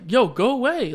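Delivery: mock-tough warding off of a stranger; trying to sound tough. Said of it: "I'm trying to be, like, tough".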